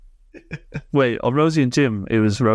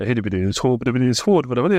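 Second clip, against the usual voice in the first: Pingu's dad voice. Retold or imitated. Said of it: "I don't, like, talk like this".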